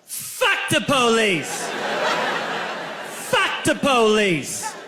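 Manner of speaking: slow defiant party chant; drunken yell. Retold or imitated. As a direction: belt it out like a drunk teen at a party. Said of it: "I yelled".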